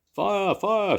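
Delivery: high, loud alarm cry; shouting fire. A narrator's reading. Di seeing the basket burst into flames, shouting. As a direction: raise the alarm. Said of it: "shouted Di".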